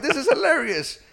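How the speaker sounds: high, laughing delight. Retold or imitated. Telling friends how he reacted, laughing. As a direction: laugh it out in amazement. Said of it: "I was like".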